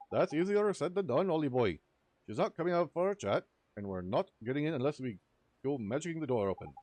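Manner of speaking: excitable Welsh sidekick, loud and high; chirpy fairy scolding his mate. Acted. Voices Drippy in game dialogue.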